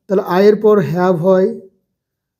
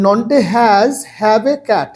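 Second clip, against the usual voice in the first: slow question; much slower than usual. Shown as a demonstration. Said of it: "কার অন্তর্গত হচ্ছে".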